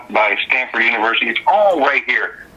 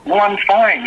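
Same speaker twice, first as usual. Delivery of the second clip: higher imitation of the caller; a musician's high voice; 8 semitones higher than usual. Guest quoting a musician on the phone, high voice. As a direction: lift into the caller's high register. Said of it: "And he goes".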